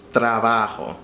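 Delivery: Trabajo with a tapped r after the t; rolled r. Shown as a demonstration. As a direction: Trabajo with the r flipped crisply. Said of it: "once you have tra down".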